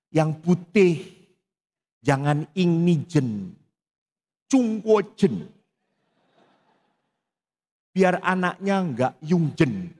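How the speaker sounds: mock Chinese. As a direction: tease mother with fake Chinese words. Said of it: "mau ngelucu di depan ibu". (lelucon logat Cina yang dibuat-buat)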